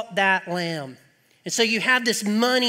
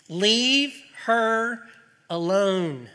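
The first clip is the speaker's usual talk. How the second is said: Jesus; much slower than usual. Acted. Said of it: "But Jesus said".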